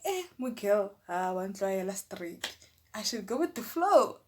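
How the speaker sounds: mock repeat; sarcastic. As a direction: throw their words back mockingly. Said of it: "I'm like".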